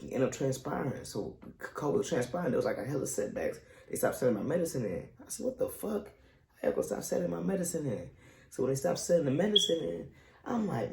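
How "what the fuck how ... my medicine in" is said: higher-pitched indignant question; retold disbelief. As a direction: replay the baffled complaint without shouting. Reenacts reaction to stopped medicine.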